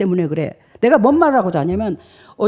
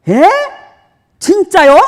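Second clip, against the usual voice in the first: loud, high astonished question; preacher startled by God's answer; shocked; 10 semitones higher, 8 dB louder, slower than usual. Retold or imitated. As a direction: gasp in disbelief.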